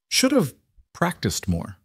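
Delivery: high, halting words of a wounded man; dying, struggling. A narrator's reading. Lucas dying on the ground before James, struggling. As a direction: push it out in broken pieces.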